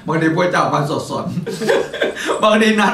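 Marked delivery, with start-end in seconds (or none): 1.3-2.4 high, soundless giggle burst; breathless laugh. Real, not acted. Host laughing at his own muddled schedule, breathless giggle. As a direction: laugh under your breath at yourself.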